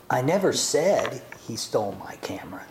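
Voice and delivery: "never" leaned on, half-whispered; stress on never. Shown as a demonstration. To the congregation, a hushed reading stressing "never". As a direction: hush it and lean on "never". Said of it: "three different meanings just by the way that I have spoken them".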